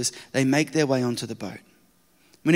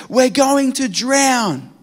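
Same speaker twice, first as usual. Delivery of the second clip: high, slow terrified wail; panicked cry; 8 semitones higher, 4 dB louder, much slower than usual. Acted. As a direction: stretch it out in panic. Panicked disciples in storm.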